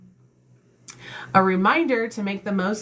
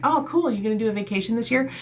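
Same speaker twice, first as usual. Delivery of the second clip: higher, fast, lightly voiced cheerful friend; mock friend; 5 semitones higher, faster than usual. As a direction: toss the question off brightly. Mock dialogue reply.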